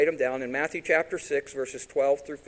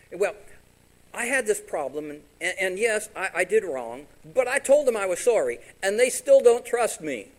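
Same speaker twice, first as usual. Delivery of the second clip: pleading spouse; 5 semitones higher, 6 dB louder than usual. Retold or imitated. Pastor voicing a spouse in counseling, pleading defensively. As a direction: whine it as the one who said sorry.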